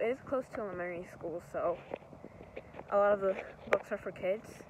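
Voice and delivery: a bit winded while walking; out of breath. Real, not acted. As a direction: talk slightly out of breath. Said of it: "Sorry, I'm out of breath".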